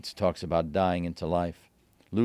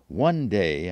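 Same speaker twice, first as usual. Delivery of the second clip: storybook opening, a little louder; lightly put-on storyteller voice; children's book tone; 5 dB louder than usual. A narrator's reading. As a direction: begin a tale for children. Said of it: "in my best children's book tone".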